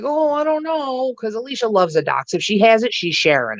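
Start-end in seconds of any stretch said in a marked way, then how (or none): 0.0-1.1 mock hesitation. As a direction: imitate someone airily doubtful. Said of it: "And Alicia's like".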